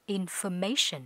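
careful teacher model of information; correct pronunciation. Shown as a demonstration. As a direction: say information ending in a light "-shən". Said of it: "thực ra nó phải phát âm là".

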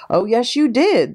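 slow, high-pitched roar back; acted roar, slow and high; roared retort. A narrator's reading. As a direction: draw it out high and forceful. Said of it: "the Trunchbull roared back".

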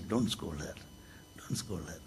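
soft, low calming plea; gentle rebuke. Retold or imitated. Swami telling the crowd to spare the lady, softly. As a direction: quietly stop them scolding.

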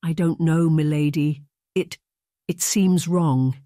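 slow, hesitant groom stammering; unsure and uneasy, halting; nervous. Acted. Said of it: "shifting nervously from one foot to the other".

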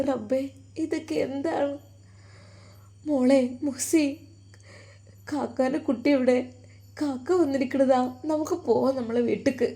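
soft, tearful and tender; tender grief. Acted. Brother at his unconscious sister's bedside, softly tender and grieving. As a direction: talk gently to a sister who cannot hear.

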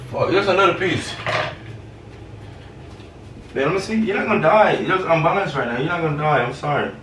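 fake apology. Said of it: "'cause it's a prank".

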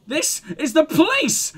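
high howl of "police". Acted. Woman howling at the detectives through a megaphone. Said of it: "she howls through a megaphone".

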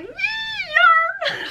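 put-on very high, strained childlike cry; giddy yarn squeal. Imitating herself on a yarn shopping trip with a squeal. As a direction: shriek like a kid seeing yarn. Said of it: "I'm like".

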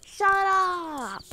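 loud, high shout at brother; angry shout. Real, not acted. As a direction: yell it to silence him. Snapping at brother.

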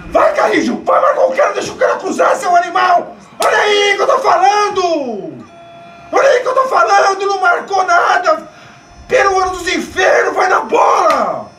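angry yelling at players. Real, not acted. Fan yelling at players on screen.

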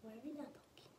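hushed whisper. Real, not acted. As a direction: keep it to a breath. Whispering during skincare.

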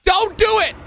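high-pitched warning cry; pleading shout. Real, not acted. Viewer begging Poolina not to attack, high pleading shout. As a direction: call out to stop her, pitch climbing. Calling out to the character.

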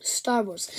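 hushed, breathy title; breathless whisper of a favourite. Real, not acted. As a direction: whisper it like a secret.

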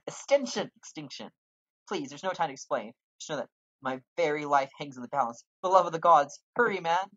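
high, loud, breathless pleading; frantic NPC plea. Acted. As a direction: beg the stranger like your life depends on it. Voicing frantic NPC dialogue.

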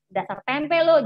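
ejekan mengolok. Retold or imitated. Bully taunting nickname.

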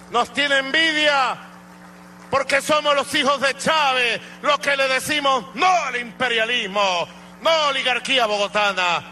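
arenga militar que sube hasta gritar; discurso de balcón atronador. Real, not acted. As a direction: proclama encendida, cada vez más alta. General arenga a la tropa. (arenga que crece hasta el grito)

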